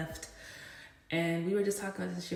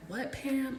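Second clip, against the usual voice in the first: higher-pitched mock disbelief; retold shock; 7 semitones higher than usual. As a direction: imitate a shocked coworker's question. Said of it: "she was shocked".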